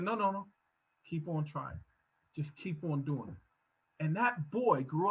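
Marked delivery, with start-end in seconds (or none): 0.0-3.4 put-on old man. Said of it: "And the old man said".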